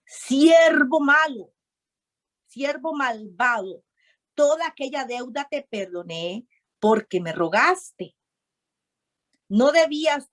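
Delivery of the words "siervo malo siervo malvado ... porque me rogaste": a stern lord condemning his servant; stern king. Acted. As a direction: scold the servant like an angry master. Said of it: "le dijo".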